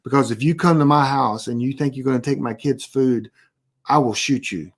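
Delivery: low, level-headed warning; dead serious. Retold or imitated. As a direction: deliver the threat in dead earnest, understated. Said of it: "I usually look at 'em dead serious".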